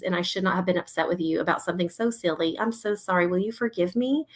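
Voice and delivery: soft, sincere parent apologising; tender apology. Retold or imitated. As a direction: gently own up to a child. Acted apology to her child.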